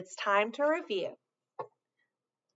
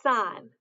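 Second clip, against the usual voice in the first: "Sun" with a long hissed s up front; stress the s; 3 dB louder than usual. Shown as a demonstration. Teacher shows children the first sound, stretched s. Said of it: "Listen for the s sound at the beginning".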